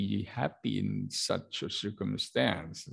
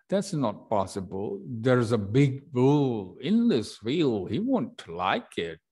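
voicing Uncle Ellie; 3 semitones higher, 4 dB louder than usual. Shown as a demonstration. Teacher voices Uncle Ellie.

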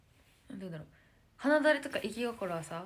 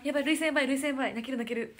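louder, high tearful excitement; friends' excited cries; 4 semitones higher, 8 dB louder, faster than usual. Retold or imitated. Imitating her group-mates overwhelmed while watching, excited. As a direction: replay everyone losing it. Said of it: "ってずずっと言ってたの".

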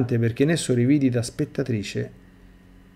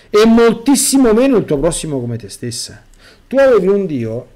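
stern judging voice; 7 semitones higher, 6 dB louder than usual. Retold or imitated. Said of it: "La voce continua il suo giudizio".

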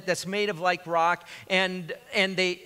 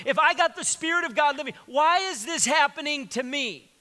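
frustrated believer; 3 semitones higher than usual. Retold or imitated. Voicing believers' inner argument.

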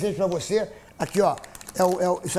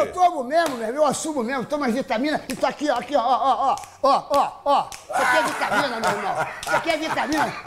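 high laughing boast; 4 semitones higher than usual. Real, not acted. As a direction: laugh through it. Laughing about vitamins.

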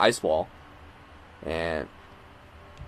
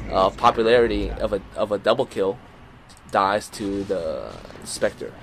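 play-by-play; 3 dB louder than usual. Acted. Live play-by-play of the match.

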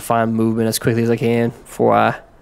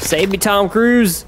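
pleading; 9 semitones higher, 4 dB louder, slower than usual. Real, not acted. Pleading mid-fight.

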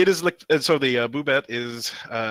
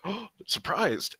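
mock surprise; 8 semitones higher, 5 dB quieter, slower than usual. Reading a surprised comic figure.

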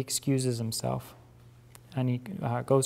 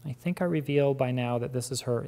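usual speaking voice

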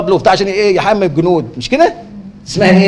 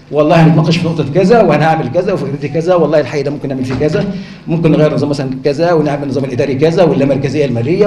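measured, lower-pitched committee voice; council member among ministers; 6 semitones lower than usual. Shown as a demonstration. Candidate speaking as if in council with ministers, composed and low. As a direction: discuss plans evenly, as among refined officials. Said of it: "كأنك قاعدة ... في المجلس مع وزراء".

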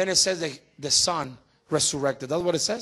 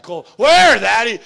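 put-on eager child's shout, high and loud; excited kid; 4 semitones higher, 11 dB louder, slower than usual. Preacher voicing his kids in the hiding game, excited shout. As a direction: call out like an eager little kid. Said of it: "They're like".

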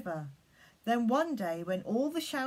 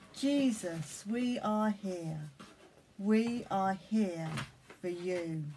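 prayer; slower than usual. Acted. Leads children in prayer.

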